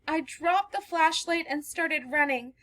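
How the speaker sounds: remember the chase in fear; frightened recollection. Acted. Girl telling the stranger how she was chased, frightened. Girl tells her story.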